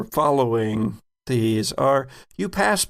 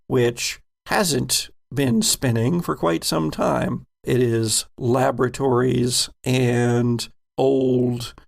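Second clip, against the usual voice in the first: measured game master narration; scene narration. Acted. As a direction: set the scene for the players.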